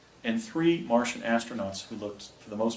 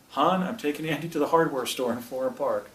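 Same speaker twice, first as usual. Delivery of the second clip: raised voice calling across the house; yelling out; 4 semitones higher, 5 dB louder than usual. Retold or imitated. Dad calling out to mom in the next room, loud call. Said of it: "He yells out to my mom".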